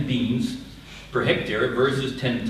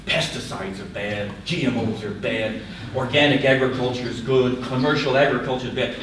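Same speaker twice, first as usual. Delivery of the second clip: mocking slogans. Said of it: "And you're talking global".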